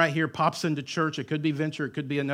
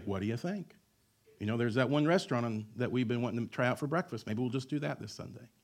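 casual musing; 3 semitones lower, 6 dB quieter, faster than usual. Acted. Imagined casual weekend deliberation.

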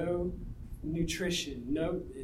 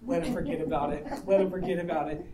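imitated hushed prayer; 3 semitones lower, faster than usual. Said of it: "the whole time you're praying".

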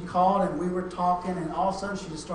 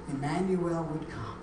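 ordinary talk

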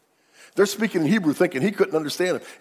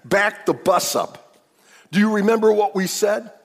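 1 insistent protest; 3 semitones higher, 7 dB louder than usual. Retold or imitated. Judah standing up to his father, loud insistent protest. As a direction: put your foot down with Dad. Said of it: "and he says".

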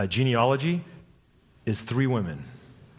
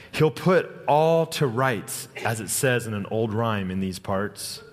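slow rhyme reading; 3 semitones lower, slower than usual. Acted. Reading Narnia rhyme aloud.

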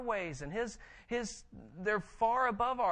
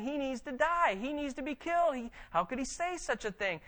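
mock outrage; 6 semitones higher than usual. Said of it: "people that were just saying".

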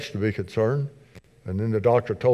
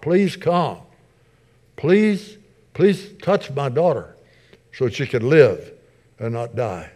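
acted begging; 3 semitones higher, slower than usual. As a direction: plead for your daughter, easing down at the end. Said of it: "he begged a lot".

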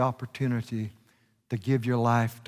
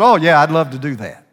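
eager yes; 4 semitones higher, 12 dB louder, faster than usual. Retold or imitated. Boy eagerly accepting.

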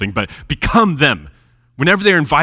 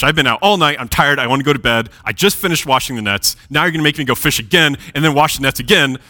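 mildly annoyed Peter. Retold or imitated. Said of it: "he seems a little annoyed".

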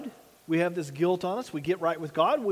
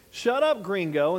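irritated pilot; 3 dB louder than usual. Retold or imitated. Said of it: "the pilot was so irritated".

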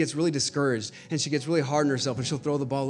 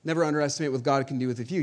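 quiet; 6 dB quieter, faster than usual. Acted. Quiet restatement after the shout.

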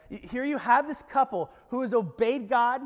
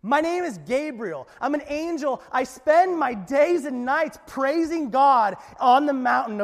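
indignant Gabriel; 3 semitones higher, 5 dB louder than usual. Retold or imitated. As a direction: puff up like an offended archangel. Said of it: "So Gabriel's response is".

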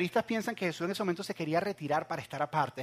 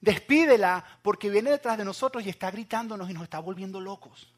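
begging plea; 5 dB louder than usual. Retold or imitated. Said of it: "le rogaron a Jesús".

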